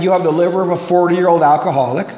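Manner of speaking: matter-of-fact doctor's verdict, normal pace. Retold or imitated. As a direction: state it like a doctor giving bad news. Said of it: "And the guy said".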